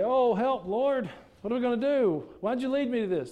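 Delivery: a hammed-up helpless wail to the Lord; mock panicked prayer. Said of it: "Does he say".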